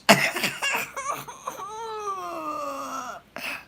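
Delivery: high, wailing real laughter, half crying; can't stop laughing, near tears; shrieking laugh that breaks; howling laughter. Real, not acted. Laughing at father's line.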